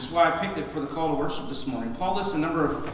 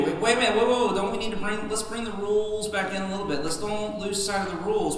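worried objector; 6 semitones higher, faster than usual. Retold or imitated. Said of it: "That's what these people are wanting to do".

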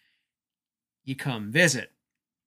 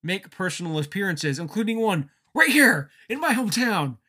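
hearty, upbeat promo voice, rising louder and higher toward the hometown; jovial Mick Foley; 5 semitones higher, 3 dB louder than usual. Retold or imitated. Foley greeting his hometown fans, jovially imitated. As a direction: play it like a beloved veteran working the crowd. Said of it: "jovial Mick Foley".

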